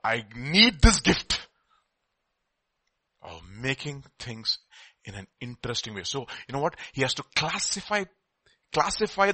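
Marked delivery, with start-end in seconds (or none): 0.0-6.0 prayer. Retold or imitated. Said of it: "things that I keep on asking God".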